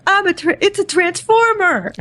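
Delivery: high Boston accent Mark Wahlberg impression; horribly bad Boston accent. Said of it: "an impression of Mark Wahlberg going".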